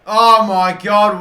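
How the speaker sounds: slow, loud, stretched-out Oh my God; stunned gasp. Real, not acted. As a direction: drag it out in pure disbelief. Disbelief at well-worked chance.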